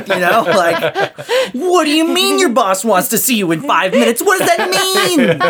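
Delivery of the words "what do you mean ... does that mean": high, laughing mock panic of a scared child; panicky inner child. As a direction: squeal it out like a freaked-out kid. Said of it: "my inner child shows up at work".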